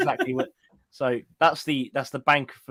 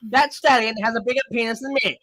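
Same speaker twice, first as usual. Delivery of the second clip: posh voice; 6 semitones higher than usual. Acted. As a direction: put on a South Park-style posh voice. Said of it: "my posh voice sounds like it's fucking South Park".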